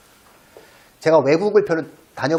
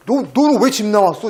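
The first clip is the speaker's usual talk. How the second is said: higher, louder coaxing voice to a stray; talking to a cat; 6 semitones higher, 5 dB louder than usual. Retold or imitated. Asking a pampered runaway cat, lightly coaxing. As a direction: ask the runaway cat kindly. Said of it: "제가 물어봤어요".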